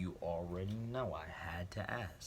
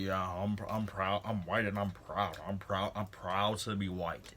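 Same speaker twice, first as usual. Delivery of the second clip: imitating proud declaration. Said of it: "Exactly like that".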